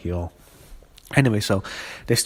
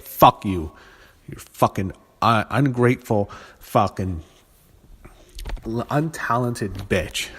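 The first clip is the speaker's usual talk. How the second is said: angry; slower than usual. Real, not acted. Ranting at Nia Jax.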